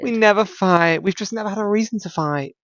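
a hint of a smug couple's voice; mocking smug couple. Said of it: "couples who say".

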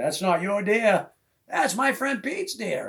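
slow, high firm warning; protective warning. Retold or imitated. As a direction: stake the claim, slow and firm. Friend chasing a hunter off.

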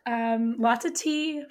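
hoarse, lost voice; raspy whisper. Real, not acted. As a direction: speak through a raspy, worn-out throat. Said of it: "we get to hear her with no voice".

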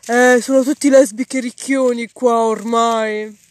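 sneering troglodyte. Retold or imitated. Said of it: "questi qua che ci vedono passare".

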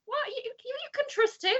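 rising, laughing panic of no no no; pleading with a character not to betray him; shocked disbelief. Retold or imitated. Fan yelling at the screen in shocked disbelief. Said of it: "I was like".

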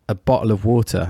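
"water" with a pronounced T. Retold or imitated. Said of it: "Just 'cause I put the T in there".

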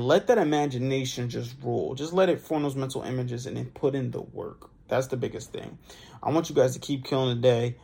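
drowsy, slurring words; sleepy, nodding-off delivery; dozing off. Real, not acted. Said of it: "I'm literally slurring words. I'm dozing off".

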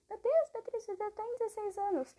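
high-pitched mock reproach; imagined scolder. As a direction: put on a high voice of a scandalized scolder. Voices someone scolding her.

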